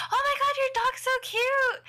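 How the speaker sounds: high, cooing gush; gushing over a dog. Retold or imitated. Strangers cooing to the owner about his tiny dog, high squeal. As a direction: squeal it over something adorable.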